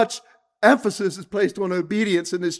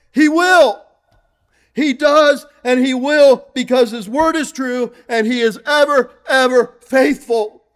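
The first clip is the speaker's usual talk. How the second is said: preaching crescendo; 4 dB louder than usual. Real, not acted.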